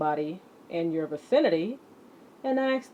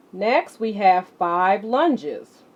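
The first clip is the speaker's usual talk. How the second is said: announcing the next exercise; 3 semitones higher, 7 dB louder, slower than usual. Acted. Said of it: "announcing next exercise".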